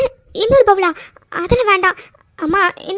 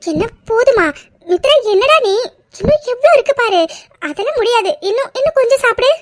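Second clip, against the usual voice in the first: coaxing scold; 6 semitones higher than usual. Acted. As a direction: push her to finish the bowl, playful but firm. Mother coaxing daughter to eat.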